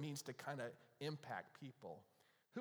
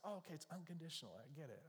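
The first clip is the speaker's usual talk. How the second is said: softer, quick aside as if conceding; offhand acceptance; 8 dB quieter, faster than usual. Acted. Preacher voicing a listener accepting unconditional love, offhand acceptance. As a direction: toss it off quietly, dropping away.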